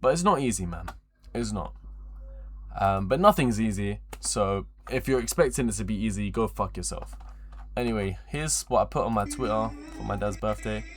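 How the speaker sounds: ordinary talk, nothing marked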